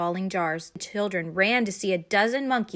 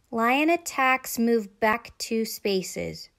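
slow, deliberate game-card reading; measured read-out, drawn out; reading aloud; 3 semitones higher, much slower than usual. A narrator's reading. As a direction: announce each word from the board. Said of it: "read Judy".

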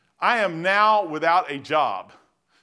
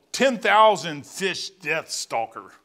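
announcer read; 4 dB louder, much slower than usual. Acted. Reading lure name dramatically.

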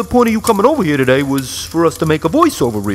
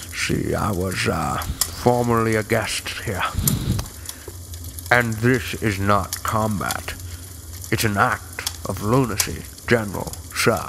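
Sean Connery; 9 semitones lower, 8 dB quieter than usual. Pretend. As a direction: purr it like Connery. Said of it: "a little Sean Connery from The Rock".

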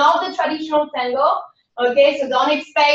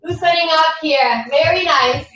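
lilting, rhythmic counting-in voice for a dance class; sing-song class cueing. Acted. Instructor cueing students through a tango warm-up in a lilting voice. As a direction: coax the class through each stretch in time with the music.

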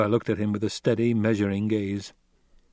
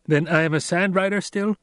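raised, eager question; young Paul, eager; 7 semitones higher than usual. A narrator's reading. Paul asking Stilgar after the ride, eager. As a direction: ask hopefully.

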